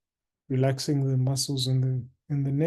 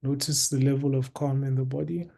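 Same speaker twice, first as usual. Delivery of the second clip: guided meditation. Acted. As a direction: guide listeners into stillness, unhurried, with long pauses.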